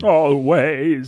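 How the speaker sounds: drawn-out mock Alan Rickman; impression of a bad Rickman impression; Brandon's Rickman. Co-host teasing the other's Rickman, drawn-out impression. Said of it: "That's my impression of Brandon's impression".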